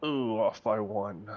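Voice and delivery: usual speaking voice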